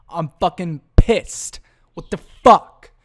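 slow seething build to a loud outburst; pissed off. Real, not acted. Host fuming over technical difficulty, loud and slow. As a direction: boil over at the tech glitch. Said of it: "I'm pissed".

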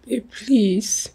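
soft whispered plea to her partner; pleading whisper. Acted. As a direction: breathe it, begging him to calm down. Wife pleading softly in quarrel.

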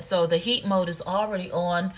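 ordinary talk, nothing marked

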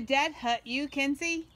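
loud, high mock British; garbled British accent. Mom pestering her daughter, garbled mock British accent. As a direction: lay on a bad British accent. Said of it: "You're not speaking".

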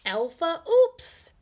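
slow rising title; dramatic title. Shown as a demonstration. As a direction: announce it grandly. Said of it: "title read dramatically".

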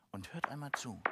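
hushed whisper before the recording plays; soft whisper to hush the audience. Real, not acted. Hushing kids before bat recording.

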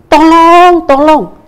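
calling out for help, loud and high; cri à l'aide. Acted. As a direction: shout for help from the cliff edge. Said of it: "dia mulai teriak".

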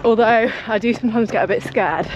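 slightly breathy mid-run chat; while jogging. Real, not acted. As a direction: talk steadily while running. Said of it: "I've been going for ten minutes".

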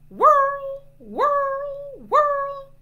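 loud, very high swooping whirls; toy whirl noise. Shown as a demonstration. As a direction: imitate a whirring laser toy. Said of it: "Let's try those sounds".

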